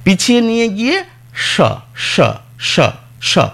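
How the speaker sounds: স said as sh, tongue pulled back; স, tongue drawn back to the palate; palatal sh. Shown as a demonstration. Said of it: "জিভটাকে আরো পিছিয়ে নিয়ে যাব".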